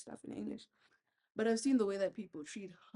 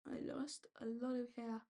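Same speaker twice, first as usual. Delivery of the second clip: whispered aside; 2 semitones higher, 5 dB quieter than usual. Real, not acted. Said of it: "braiding hair, aside".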